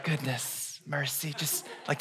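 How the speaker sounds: soft, near-whispered goodness, mercy; dreamy hush; hushed floating. Retold or imitated. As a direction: float the words softly. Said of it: "I was like".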